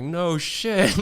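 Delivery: high, loud mock-exasperated retort; retold yelling. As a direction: imitate an angry man's sarcastic yell. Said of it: "yelling at me".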